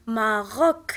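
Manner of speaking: ماروك slowly, ending on a hard K; final C as K. Shown as a demonstration. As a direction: sound out ماروك for learners, final C as K. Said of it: "في اخر الكلمه غالبا كنطقها". (ماروك بشوية، السي فالاخر كتنطق كا)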